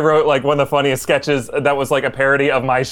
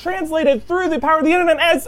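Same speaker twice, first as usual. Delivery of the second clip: high announcer voice; 10 semitones higher than usual. Acted. Introducing Meeseeks impression.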